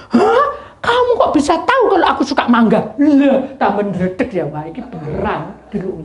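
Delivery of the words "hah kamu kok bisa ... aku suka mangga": high laughing disbelief; laughing amazement. Real, not acted. Preacher retelling the man's amazement, laughing high. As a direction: laugh through the surprise.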